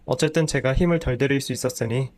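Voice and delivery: ordinary delivery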